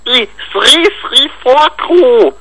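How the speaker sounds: "Sri Sri Vorkru" said slowly, word by word, to clarify. Pretend. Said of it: "Was hast du aufgemacht?".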